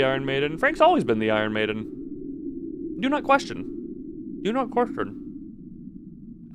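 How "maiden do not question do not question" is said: slow, much higher eerie whisper; ominous drawn-out whisper; creepy whisper. Pretend. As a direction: whisper it like a cult warning. Creepy reply about Frank.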